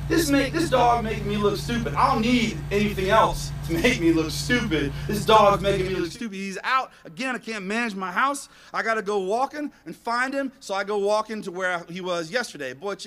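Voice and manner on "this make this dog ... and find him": loud, indignant grumbling; retold embarrassed outburst; fired up. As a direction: rant as if shown up by the dog. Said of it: "it just got me fired up".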